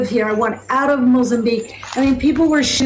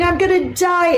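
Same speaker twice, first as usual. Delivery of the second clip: high-pitched mock scream at normal volume; retold scream; 5 semitones higher than usual. Missionary under the glory of God, retold scream. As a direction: echo a scream, raised in pitch only. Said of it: "And I'm screaming".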